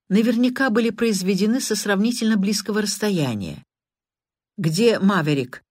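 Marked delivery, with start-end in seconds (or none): 4.6-5.6 irritated. Acted. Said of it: "раздражённо спросил".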